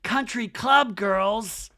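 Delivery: high, drawn-out mock teasing; exaggerated high impression, slowing; Kyle. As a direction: stretch it out high, as an imitation. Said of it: "and Kyle's like".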